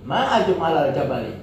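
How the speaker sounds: MA starts high, "ajmal al jabali" falls away; exclamation of wonder. Shown as a demonstration. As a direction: say "Ma ajmal al jabali" as amazement with a falling tune. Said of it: "Intonasinya yang tidak bisa dibohongi".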